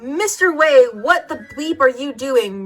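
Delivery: angry shout. Acted. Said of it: "Rumbridge shouted angrily".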